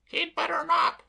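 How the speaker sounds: high, loud grim maid voice. Acted. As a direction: say it darkly, a threat. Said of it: "said Miss Lippett grimly".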